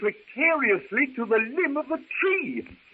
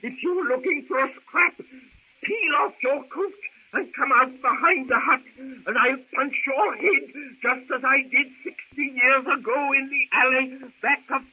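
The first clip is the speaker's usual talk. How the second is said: put-on a higher-pitched old man's bluster; blustering challenge; 4 semitones higher than usual. Professor daring skinny Philander to a fight behind the hut, blustering. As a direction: puff up and dare him to a fight.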